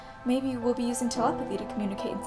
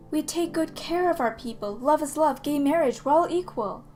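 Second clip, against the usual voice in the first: higher, punchier ironic proclamation; mock proud slogans; 4 semitones higher than usual. Poet parroting society's claims of equality, mock-proud proclamation.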